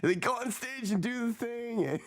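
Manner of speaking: words breaking into laughter; laughing. Real, not acted. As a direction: laugh through the line. Laughs while explaining.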